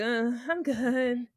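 slow, hesitant, wavering reply; lightly shaky, unsure. Retold or imitated. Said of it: "like, in a shaky voice".

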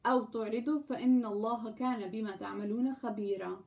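fast, fluent Arabic verse reading; brisk scripture recitation in Arabic; Quran recitation. Acted. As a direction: rattle through the verse in one breath.

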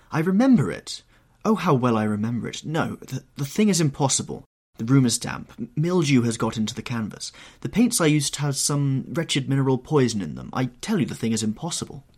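loud, high, hurried protest; agitated painter. Acted. Painter explains away the changed portrait, agitated. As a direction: rush out the denials in agitation.

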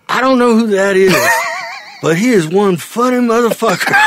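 loud, high laughing shout; laughing through pain. Retold or imitated. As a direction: cackle it out, delighted. Soldier laughing at Robin, retold.

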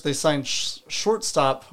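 talking around a retainer in mouth; words blurred by a retainer in mouth. Real, not acted. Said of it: "hard to say with the retainer in your mouth".

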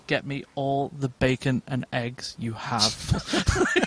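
slow, flat-voiced deadpan order, lightly imitating Ron Swanson; slow unimpressed deadpan demand. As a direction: drag each word out with no emotion at all. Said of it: "He just says it in such a deadpan voice".

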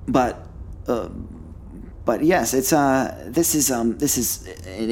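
a flustered, polite collector; bright squeaky sing-song welcome. Acted. Plays scholarly collector in character.

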